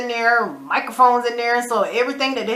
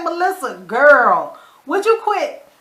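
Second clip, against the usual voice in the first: exasperated; 4 semitones higher, 5 dB louder, slower than usual. Real, not acted. Scolding Melissa, exasperated.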